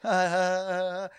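drawn-out, uneasy "ah, ah, ah"; awkward stammered ahs. Retold or imitated. Trying to pull the hand away from a stranger, awkward ahs. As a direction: imitate an uncomfortable string of ahs.

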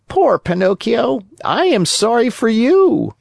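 put-on high, pitying old cricket; scolding cricket. Cricket pitying the lazy puppet, high scolding creature voice. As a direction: tut at the foolish boy.

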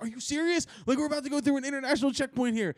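half-mocking voice of his wife; a hint of an exasperated wife; wife's disbelief. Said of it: "She was like".

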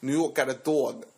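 put-on joking New York street-guy accent; hammed-up New York voice. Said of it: "that's my New York accent".

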